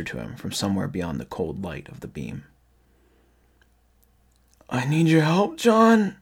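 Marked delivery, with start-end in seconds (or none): 4.7-6.2 high, raspy cry for help. A narrator's reading. Raspy thing in the dark calls to John, crying. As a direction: cry out high, climbing on the name. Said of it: "the raspy voice cried".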